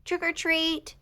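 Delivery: high, loud playful shout; Mister Mole springing a surprise, high shout. Acted. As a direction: jump out and shout it. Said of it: "shouted Mister Mole".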